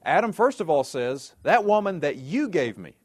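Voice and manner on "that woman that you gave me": high, accusing protest; shifting blame. Acted. Adam turns the blame on God, accusing. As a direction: act out Adam pinning it on someone else. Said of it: "Adam turns the blame and places it on God".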